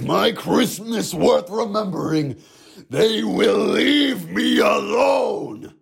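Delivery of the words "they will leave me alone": slow angry yell; angry shout. Acted. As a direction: bellow it slowly, furious. Angry demand.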